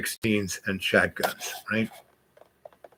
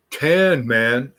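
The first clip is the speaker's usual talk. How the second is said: California dude; 4 semitones higher, 4 dB louder than usual. Retold or imitated. Voicing the California surfer boys.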